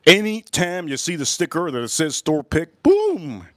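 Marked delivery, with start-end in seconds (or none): 2.8-3.5 high, punchy exclamation; excited shout. Real, not acted. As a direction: bang the word out. Exclaiming about store picks.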